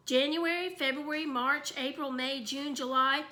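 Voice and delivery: recited. A narrator's reading. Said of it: "Fudge recited".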